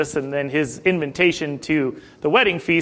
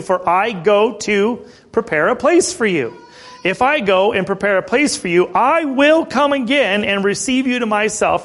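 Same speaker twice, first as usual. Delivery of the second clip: emphatic, slightly raised reading voice; scripture reading; 3 semitones higher than usual. Acted. Preacher reads Jesus's promise to the congregation, emphatic scripture reading. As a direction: read the verse out to the congregation.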